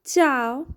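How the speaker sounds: "Ciao" said as chow, clear Italian ch; teacher models "Ciao" with a crisp ch sound. Shown as a demonstration. Teacher drilling students on Italian greeting, crisp demo. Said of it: "So let's begin".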